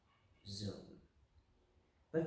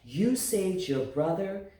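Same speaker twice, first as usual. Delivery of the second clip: father's praise; 6 semitones higher, 5 dB louder, slower than usual. A narrator's reading. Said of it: "Her father said".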